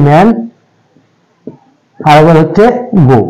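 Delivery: ম্যান and গো each set off as a separate beat; syllables set apart. Shown as a demonstration. Teacher showing two utterances, ম্যান and গো set apart. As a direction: pause before a lone, clear গো. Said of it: "দুবারে উচ্চারণ হচ্ছে".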